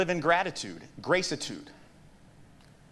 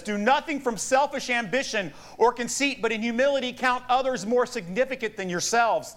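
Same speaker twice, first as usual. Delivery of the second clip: raised, declaimed Bible verse; scripture reading; 6 semitones higher than usual. Acted. Preacher reads Paul's letter to the church, declaiming. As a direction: proclaim the verse to the congregation.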